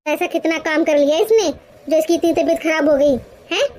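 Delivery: scolding mother-in-law. Acted. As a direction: bark at the lazy daughter-in-law. Mother-in-law belittles bahu. (ग़ुस्से में डाँटती सास)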